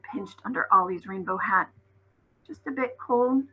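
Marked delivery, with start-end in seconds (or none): 2.4-3.5 put-on stubborn little girl, insisting; stubbornly. A narrator's reading. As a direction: deny the cold stubbornly. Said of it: "she said stubbornly".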